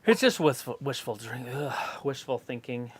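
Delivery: talking around a stick in the mouth; words slurred past a stick in the teeth. Real, not acted. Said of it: "a stick wouldn't cause you to not be able to articulate".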